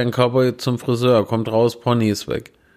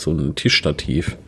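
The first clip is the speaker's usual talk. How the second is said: ordinary talk, nothing marked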